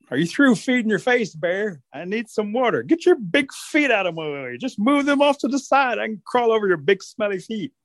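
high-pitched nagging rabbit; rude, pushy rabbit. Acted. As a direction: pester the bear in a high voice. Rabbit pestering Bear.

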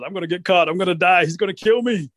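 mildly panicked, pitch climbing; acted rising panic; panicking rabbit. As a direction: let the pitch climb with each fear. Rabbit panics as Bear closes in.

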